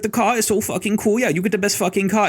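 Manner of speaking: high, hurried fake German accent; mock German accent. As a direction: parody a swearing German-accented rental clerk. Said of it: "some random German accent".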